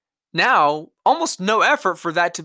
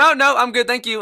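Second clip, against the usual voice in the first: higher, louder fake-polite reply; mock polite brush-off; 9 semitones higher, 5 dB louder than usual. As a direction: brush him off with a bright, polite tone. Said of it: "But I just said".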